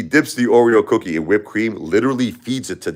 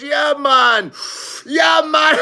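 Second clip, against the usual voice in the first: put-on Jamaican accent; much slower than usual. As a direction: agree like a happy Jamaican bassist. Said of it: "He goes".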